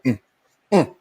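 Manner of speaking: short grunt of disapproval, imitating mama; disgusted "mm". Host mimics mama's reaction when something goes on, disgusted grunt. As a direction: imitate a mother's disgusted little "mm". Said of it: "just disgusted with that".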